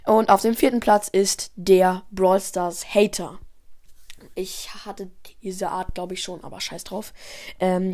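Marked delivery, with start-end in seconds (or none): 4.3-7.1 whispered aside. Real, not acted. Aside under the breath.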